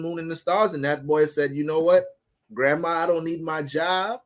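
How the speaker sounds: a hint of a gossiping granny; grandma voice. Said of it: "I got my grandma voice on".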